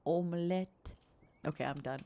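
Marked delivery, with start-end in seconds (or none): 0.1-0.7 softer French accent; gentle put-on French accent. Shown as a demonstration. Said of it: "in a soft French accent voice".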